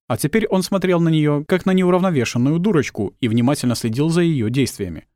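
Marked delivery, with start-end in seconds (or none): none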